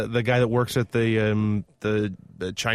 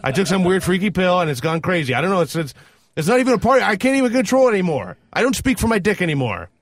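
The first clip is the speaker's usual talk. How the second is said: mock protest; 4 semitones higher, 4 dB louder than usual. Acting out excuse to a partner.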